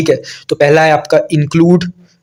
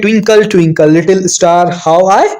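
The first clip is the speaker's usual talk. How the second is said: slow recital; 2 semitones higher, much slower than usual. Shown as a demonstration. Teacher reads poem line slowly.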